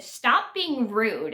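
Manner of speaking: mildly annoyed, slow and deliberate; annoyed retort. Retold or imitated. Girl answering her friend at the movies, mildly annoyed. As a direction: retell an irritated comeback, drawn out. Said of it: "I got annoyed with her".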